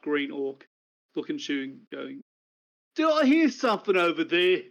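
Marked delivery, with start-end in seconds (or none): 2.9-4.6 an offended brute turns around; gruff orc challenge. Acted. Orc voice continued.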